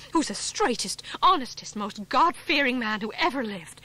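put-on outraged wife boxing a boy's ears; breathless fury. A narrator's reading. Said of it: "sounding suddenly out of breath".

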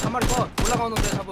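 loud triumphant kill call; excited callout. Real, not acted. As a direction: shout the kill out proudly. (신나서 외치는 킬 콜)

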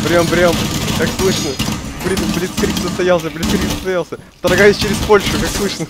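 loud playful radio report; over a radio. Pretend. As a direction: call it in like a field radio. Playing soldier on radio comms.

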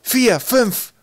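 high, loud counting shout. Acted. Twig counting during the game, high shout. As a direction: call the numbers out across the field.

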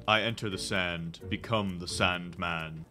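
low, slowing pretend-ominous voice; mock-dramatic Sandman. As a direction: intone it like a pretend sand creature. Mock-dramatic sand character.

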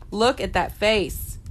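drawn out slowly, lovingly; slow fond cooing; slow adoring. Real, not acted. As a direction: stretch each word out.

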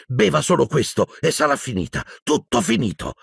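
gasped reassurance. A narrator's reading. Boy coaxing professor to drink the last cup, lightly gasped. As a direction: pant it out to coax him. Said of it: "ansimò Harry".

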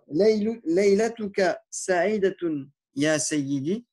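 drawn out, syllable by syllable; slow it down so learners catch each part; slow Arabic demo. Shown as a demonstration.

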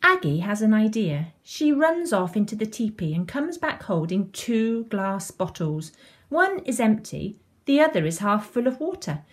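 put-on lively storytelling to young children; children's story reading. A narrator's reading. Reading a beach story to children, animated storytelling. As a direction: read it like a picture book, animated.

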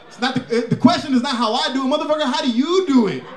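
rant. Acted. Ranting at parents.

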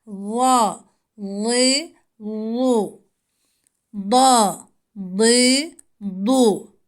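"Da, di, du" with the tongue against the back teeth; thick, heavy D; Dat syllables. Shown as a demonstration. Teacher models the Dat sound for pupils. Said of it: "dilimizi azı dişlere koymakla".

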